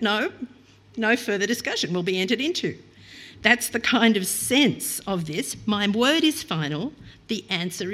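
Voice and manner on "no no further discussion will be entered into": stern parent. Retold or imitated. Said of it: "familiar words to any loving parent".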